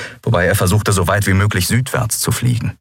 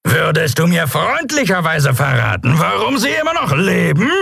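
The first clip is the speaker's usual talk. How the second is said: sarcastic shout over wind; 9 semitones higher than usual. A narrator's reading. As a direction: bellow against the roaring wind. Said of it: "brüllte er gegen das Tosen des Windes".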